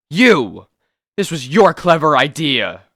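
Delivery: furious accusing yell; angry shout. Acted. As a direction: shout the blame at him. Trapped men blaming each other.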